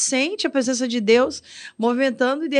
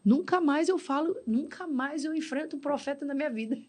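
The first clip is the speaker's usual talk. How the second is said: hushed vow; 3 semitones higher, 6 dB quieter than usual. Retold or imitated. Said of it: "eu falei".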